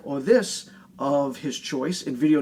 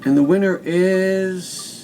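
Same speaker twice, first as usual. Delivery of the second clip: suspenseful reveal; 3 dB louder, slower than usual. Real, not acted. Building suspense before winner.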